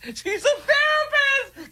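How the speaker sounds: squeaky, slow mock falsetto; high mock voice. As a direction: mimic her in high falsetto. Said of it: "repeats it in a high mock voice".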